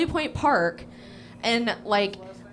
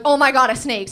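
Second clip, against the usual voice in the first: mock alarm; 3 semitones higher, 8 dB louder than usual. Acts out seeing a snake.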